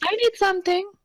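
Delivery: very high, girlish put-on voice. Speaker voices a character saying he needs something: girly voice. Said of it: "he says in a girly voice".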